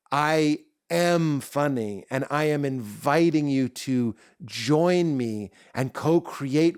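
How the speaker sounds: slow, deliberate declaration of confidence; confident. Acted. Comic on stage inviting the audience in, confident. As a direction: say it slowly, with total self-belief. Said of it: "this is the real voice of my confidence".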